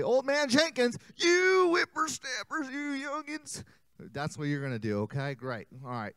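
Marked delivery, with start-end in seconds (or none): 0.0-3.6 put-on high, slow, shouted old-man scolding. Shown as a demonstration. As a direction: drag it out like a cranky grandpa. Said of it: "So when I say".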